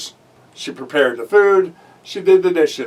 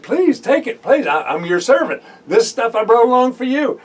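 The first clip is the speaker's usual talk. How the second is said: urging Naaman; 5 semitones higher than usual. Retold or imitated. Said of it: "Naaman urged, he said".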